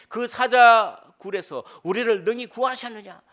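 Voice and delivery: high, loud, slow desperate question; crying out from the lions' den of life; pleading cry. Acted. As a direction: call out to God for rescue. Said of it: "이렇게, 질문하는 거죠".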